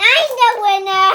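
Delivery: a loud cry of victory; triumphant shout. Real, not acted. Child winning the yogurt race, shouting in triumph. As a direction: crow about winning.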